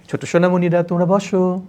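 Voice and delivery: put-on teacher gently seating nursery children with a smile; playful, smiling. Shown as a demonstration. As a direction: coax the nursery class playfully. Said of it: "একটু হাসি মুখে, একটু দুষ্টামির ছলে".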